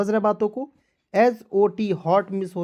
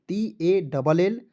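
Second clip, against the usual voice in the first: slow spelling; much slower than usual. Shown as a demonstration. Teacher spells out the word.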